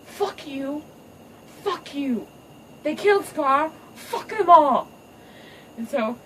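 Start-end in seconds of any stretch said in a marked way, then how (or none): 0.0-4.9 high, building to a loud roar; mock villainess losing it; furious mama. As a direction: rage it out louder each line. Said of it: "She's like".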